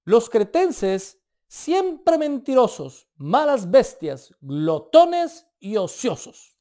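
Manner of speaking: quoting the prophet, slow and loud; booming, slow pronouncement of a harsh saying; slow loud proclamation. Retold or imitated. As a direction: drag out each phrase like a solemn verdict. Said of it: "su propio profeta, dijo".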